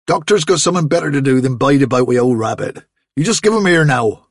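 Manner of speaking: a farmer lecturing his daughter about rabbits; scolding farmer. Acted. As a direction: lay down the law. Father demanding.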